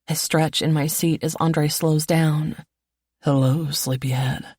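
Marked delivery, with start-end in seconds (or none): 3.2-4.5 playful. A narrator's reading. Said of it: "his playful tone".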